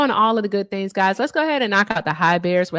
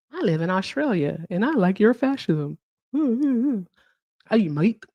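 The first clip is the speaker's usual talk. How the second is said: a clumsy attempt at an Australian accent, mate drawn out slowly; bad Australian accent; slower than usual. Mocking an Australian commenter in a bad Australian accent. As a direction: fake an Australian accent badly, stretching the last words. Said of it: "I don't know how Australians talk. I don't do accents".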